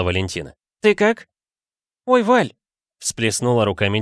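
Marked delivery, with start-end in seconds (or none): 0.8-1.3 high, bright-pitched coaxing friend; a much higher, teasing female voice; Valentina voice. A narrator's reading. 2.0-2.5 put-on high, delighted girl's cry; Tayka voice. A narrator's reading.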